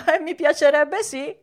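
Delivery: high, keen yes; eager puppet voice. A narrator's reading. Pinocchio accepting the cat's offer, high and eager. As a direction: answer keenly in a high voice.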